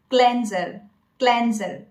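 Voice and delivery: "cleanser" as KLEN-zer; correct pronunciation. Shown as a demonstration. Coach introducing the word, correct pronunciation. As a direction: say "cleanser" with a short e. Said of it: "this is pronounced as".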